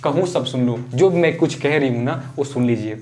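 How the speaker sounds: acting out an urgent plea not to be stopped; lightly voiced queen demanding a hearing; mildly insistent, cutting off objections; insistent Kaikeyi. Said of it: "तो कैकेयी कहती हैं".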